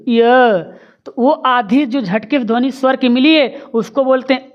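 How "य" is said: "य" said with a jolt, a quick ee glide at the start; clipped ya demo. Shown as a demonstration. Teacher showing students the jolt in "य", crisp. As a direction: snap out "य" so a half "ई" comes through. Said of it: "झटके से आगे ई की ध्वनि".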